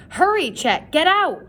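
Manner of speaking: high, loud panicked shout; frantic cry. A narrator's reading. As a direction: cry out in terror. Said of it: "Chet cried".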